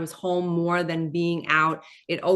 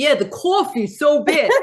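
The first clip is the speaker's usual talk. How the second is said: loud, thick, laid-on New York accent; 9 semitones higher, 6 dB louder than usual. Showing the accent she tries to soften in videos, strong new york accent. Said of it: "I try not to be like".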